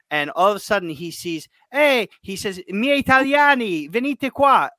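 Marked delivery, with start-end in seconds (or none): 1.7-2.1 high, loud shout of hey; excited call. Retold or imitated. Retelling Koulibaly calling teammates over. 2.7-4.7 high, loud call in Italian; excited call. Retold or imitated. Retelling Koulibaly calling teammates over.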